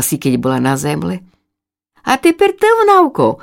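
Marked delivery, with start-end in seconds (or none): 2.0-3.4 high call up from the ground; sister calling. Acted. Sister chick calls up to the tired chick, high. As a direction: shout encouragement upward. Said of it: "кричала їй здолу сестричка".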